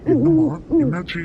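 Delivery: high, loud worried call; calls out in alarm to the frightened girl. Acted. Uncle rushing to the scared girl, loud alarmed call.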